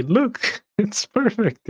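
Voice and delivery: high, bright showing-off voice; mock-proud look-at-this line; mock proud boast. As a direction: present it like a proud baker. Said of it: "put a cherry and say".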